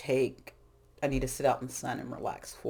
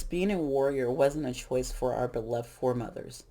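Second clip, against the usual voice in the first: reading aloud. Shown as a demonstration. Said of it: "I wanna read this".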